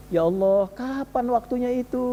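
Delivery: mild longing plea, drawn out. Retold or imitated. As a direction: imitate a teacher yearning for God. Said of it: "Udah rindu". (lirih merindu, menirukan sang kiai)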